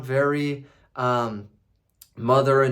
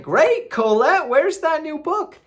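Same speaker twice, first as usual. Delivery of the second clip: mock demanding husband; 13 semitones higher, 6 dB louder than usual. Husband back after weeks, mock demanding. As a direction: drag out the greeting, then demand the book. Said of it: "He's like".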